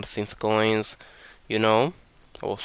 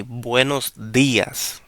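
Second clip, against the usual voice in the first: buenos días with the weight on DÍ; stress on días; slower than usual. Shown as a demonstration. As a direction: hit the accented í of días after an easy buenos. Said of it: "we do the power here".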